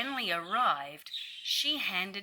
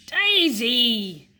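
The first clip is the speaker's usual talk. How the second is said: calling out; 5 semitones higher, 9 dB louder than usual. Acted. Stanley calls again.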